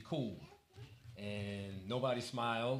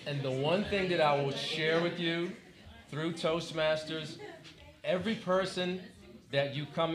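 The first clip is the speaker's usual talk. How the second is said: emphatic, lifted testimony with weighty pauses; verging on preaching; 3 semitones higher than usual. Real, not acted. Club president urging the audience to meet people, half preaching. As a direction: start preaching it to the room, measured and earnest. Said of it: "I'll start preaching".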